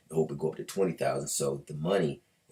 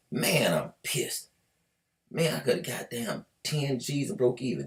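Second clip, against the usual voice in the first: playful imitation of a frustrated trader, pitched up; mock pissed; 8 semitones higher than usual. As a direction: complain about the missed profit. Trader regrets selling.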